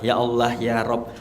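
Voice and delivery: slow, understated plea to God; retold prayer. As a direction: recall a prayer, calling on God slowly. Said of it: "saya berdoa". (menirukan doa dengan pelan)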